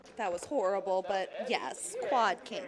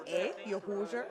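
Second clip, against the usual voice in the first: stereotyped Canadian, laughing; Canadian accent; 6 dB quieter than usual. Shown as a demonstration. Co-host showing off her dialects, joking Canadian accent. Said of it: "And Canadian".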